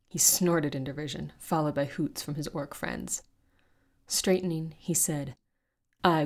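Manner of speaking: steady storytelling read, fantasy adventure; story narration. A narrator's reading. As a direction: carry the listener through the fight scene. Podcast host reads a fantasy excerpt.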